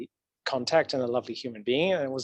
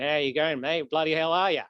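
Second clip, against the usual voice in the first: put-on a light, quick Australian accent. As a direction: toss it off in a casual Australian accent. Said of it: "we don't want to do an Australian".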